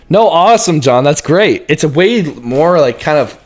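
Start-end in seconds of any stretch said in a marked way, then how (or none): 0.1-1.6 forced jump up. Shown as a demonstration. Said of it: "now you have to go".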